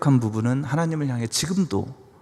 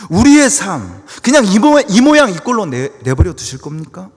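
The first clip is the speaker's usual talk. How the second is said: loud, high impassioned appeal; protesting cry to God; 6 semitones higher, 11 dB louder than usual. Acted. Believer challenging God over a neglected life, loud protest. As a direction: cry out in protest, easing at the end. Voices bitter complaint to God.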